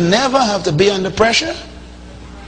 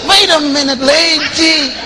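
higher, pleading husband trying to calm her; flustered husband; 9 semitones higher, slower than usual. Retold or imitated. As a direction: back off, hands up, calm her down. Husband answers nagging wife.

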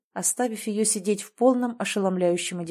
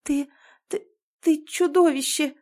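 high, loud stammered accusation; out-of-breath, stammering cry; breathless accusation; 8 semitones higher, 3 dB louder than usual. A narrator's reading. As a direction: choke out the insult in shock. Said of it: "её дыхание сбилось".

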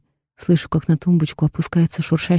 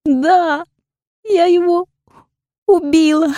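higher, drawn-out, near crying; drawn-out tearful confession; 10 semitones higher, 3 dB louder, slower than usual. A narrator's reading. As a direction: she confesses through tears, dragging the words. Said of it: "тяну я". (протяжно, сквозь слёзы)

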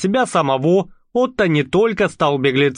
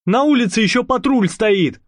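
explaining gendarme; 8 semitones higher than usual. A narrator's reading. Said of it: "пояснил жандарм".

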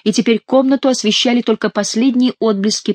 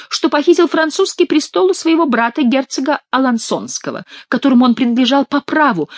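high nasal mock penitent; hammed-up whiny imitation of the king; nasal whine; 6 semitones higher than usual. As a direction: drone out the confession high through the nose. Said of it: "загнусавил Шут".

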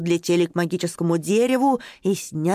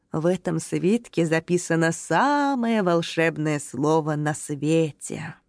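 talking tree; 3 semitones lower than usual. Acted. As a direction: announce it solemnly like an ancient tree. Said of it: "торжественно проговорило старое дерево".

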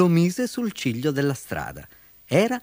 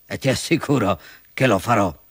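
exasperated fox threat; irked, emphatic villain; very annoyed. Acted. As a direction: vow revenge with firm emphasis. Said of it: "fece la volpe seccatissima".

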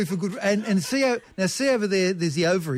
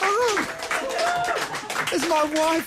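fighting back real tears of joy; moved almost to tears, higher; teary and emotional; 7 semitones higher than usual. Real, not acted. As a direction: voice pitched higher, choked with emotion. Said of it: "I'm getting all weepy".

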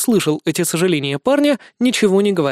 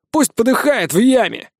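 spiteful; 7 semitones higher than usual. Acted. Iosif gloats.

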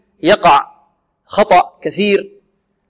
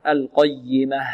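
القيمة slowly, leaning on the doubled ي; stressed yaa; 3 semitones lower, 6 dB quieter, much slower than usual. Shown as a demonstration. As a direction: press on the "yy" of القيمة. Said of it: "والياء".

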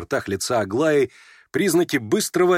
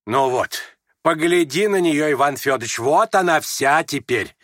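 растроганно; 3 semitones higher, 3 dB louder than usual. A narrator's reading. Мать растроганно показывает дочь.

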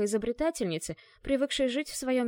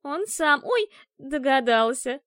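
громко и выше, с испуганным «ой»; выкрикни, уклоняясь от сапога; испуганно; 5 semitones higher, 7 dB louder, slower than usual. Acted. Кошка уворачивается от сапога. (кошка оправдывается, уворачиваясь от сапога)

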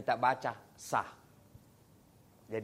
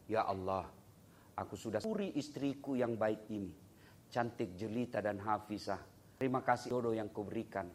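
retold prayer; 6 semitones lower, 6 dB quieter than usual. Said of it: "Saya pernah berdoa".

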